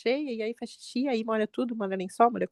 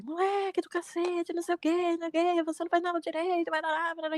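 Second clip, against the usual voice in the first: retold angry father's yell, mild and higher, no real volume; mock the father's scolding without shouting; pai bravo gritando; 7 semitones higher than usual. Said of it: "e gritou assim". (imitação leve do pai gritando bravo)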